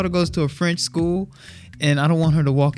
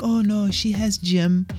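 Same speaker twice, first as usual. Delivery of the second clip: school staff; 5 semitones higher, slower than usual. Retold or imitated. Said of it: "they were like".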